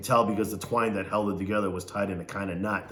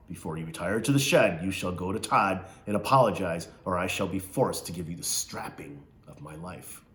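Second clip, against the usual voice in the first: Missus Amos; 2 semitones lower than usual. Acted. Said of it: "She talked like this".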